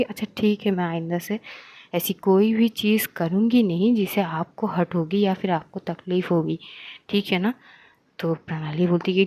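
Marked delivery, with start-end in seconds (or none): 0.0-7.5 soothing apology. Acted. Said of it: "अध्या उसको शांत कराती है".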